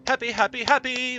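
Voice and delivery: squealing high and loud with delight, clapping; overjoyed. Real, not acted. Streamer celebrating the hydrogen find to viewers, squealing with joy. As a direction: burst out in giddy joy at the discovery. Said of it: "Friends, I am so happy. I'm clapping".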